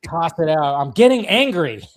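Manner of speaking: mock angry mom. Mama warning Carl to get rid of the baby, mock angry. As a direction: play the fed-up mother, half-serious. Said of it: "and she's just like".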